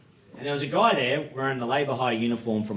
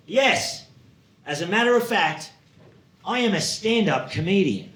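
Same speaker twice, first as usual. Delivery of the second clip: high, emphatic mock-proud reply; measured, pitched-up boast; proud announcement; 5 semitones higher than usual. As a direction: declare it with self-importance. Proudly revealing his job to co-worker.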